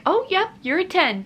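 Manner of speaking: high-pitched imitation of a nurse confirming; imitated nurse's announcement. Nurse announces the exam result.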